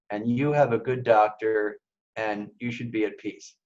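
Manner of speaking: gently reassuring, as the good spirit; a calm, reassuring inner voice. Retold or imitated. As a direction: soothe the worried patient, unhurried. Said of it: "That sounds very calm".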